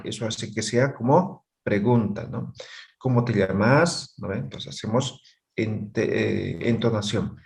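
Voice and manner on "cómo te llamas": a Spanish question with the usual questioning tune; question intonation. Shown as a demonstration. Teacher shows students the Spanish question tune, rising intonation. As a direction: show the questioning tune of castellano. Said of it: "hacemos la entonación".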